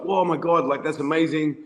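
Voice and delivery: impressed seatmate's gush, lightly acted; out of control excited. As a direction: imitate an excited stranger, only mildly hammed up. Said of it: "out of control excited".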